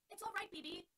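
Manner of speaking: called out high and loud across the field; calling encouragement. Acted. Dorothy calling out to Button Bright, loud and encouraging. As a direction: cheer up a struggling teammate from afar. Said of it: "Dorothy called to him".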